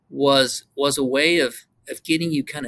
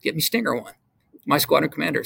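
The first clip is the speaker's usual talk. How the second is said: wing commander's radio call; 3 semitones higher than usual. Retold or imitated. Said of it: "to call in and go".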